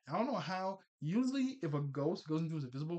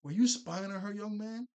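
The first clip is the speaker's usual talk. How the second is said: stern parent; 6 semitones higher, 5 dB louder than usual. Retold or imitated. Parents scold Danny.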